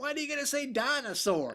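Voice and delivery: complain, fed up; exasperated. Real, not acted. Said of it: "Just fucking say".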